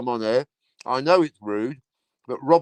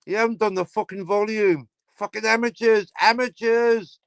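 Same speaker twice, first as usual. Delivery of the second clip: mock outraged pundit; 8 semitones higher than usual. Scolding amateurs who forgot the volume, mock outrage. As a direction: stretch out amateurs in disgust.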